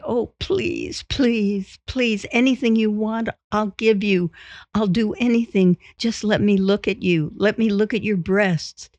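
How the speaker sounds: high, needy begging; pleading. Acted. Husband playing a suitor begging his wife, high pleading.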